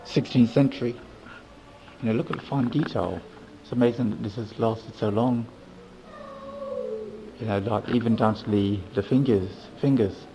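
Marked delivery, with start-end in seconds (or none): 2.0-10.3 muffled behind a mask; talking through a mask; through a face mask. Real, not acted. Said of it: "It's a bit difficult to talk with a mask on".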